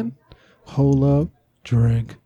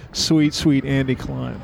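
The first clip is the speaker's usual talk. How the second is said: deep voice effect; 3 semitones lower, slower than usual. Shown as a demonstration. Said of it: "just say".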